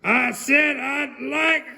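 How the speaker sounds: loud, high, slow shout breaking off. Acted. Mister Noisy shouting at the butcher, high and slow. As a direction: yell then stop short. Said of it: "shouted Mister Noisy".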